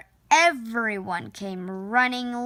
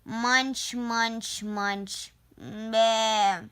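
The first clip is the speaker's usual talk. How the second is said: chewing sheep; much slower than usual. Acted. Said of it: "answered the sheep".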